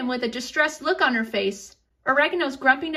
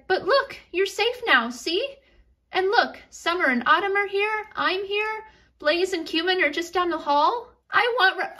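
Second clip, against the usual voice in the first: put-on higher, soothing mom voice to a scared child; calm her little one down gently; reassuring mom; 5 semitones higher than usual. Mom reassures her crying daughter after a nightmare, higher and soothing.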